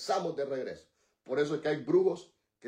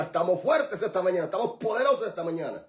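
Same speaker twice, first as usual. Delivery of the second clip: bold declaration; 2 semitones higher, faster than usual. Shown as a demonstration. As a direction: proclaim estamos fuertes, hitting fuertes hard.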